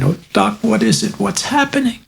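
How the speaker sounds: high, desperate plea; begging the doctor for answers; frantic mother. Acted. Mother pleads with the doctor, high and frantic.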